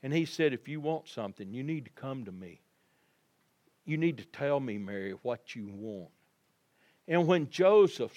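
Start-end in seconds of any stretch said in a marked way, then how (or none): 0.5-6.1 a little different voice. Retold or imitated. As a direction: coax her kindly to ask. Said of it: "spoke to Mary in a little different voice".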